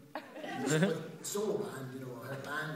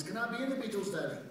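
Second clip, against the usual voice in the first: put-on higher-pitched pleading kid to a parent; young child; 7 semitones higher than usual. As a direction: imitate a child asking Daddy, voice raised. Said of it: "when I was young".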